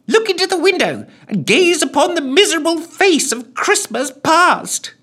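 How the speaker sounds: high, loud menacing ghost voice; evil ghoul command. A narrator's reading. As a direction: command him like a hammy ghoul. Ghoul regains evil composure.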